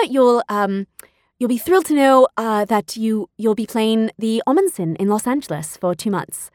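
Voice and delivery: lightly imitated British casting director; halting, polite British phone voice; British accent. Casting director explains the tour cities, British accent. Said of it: "She was British, had the loveliest accent".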